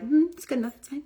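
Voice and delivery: high, breezy good-enough voice; mock careless. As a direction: wave it off like you don't care. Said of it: "They're like".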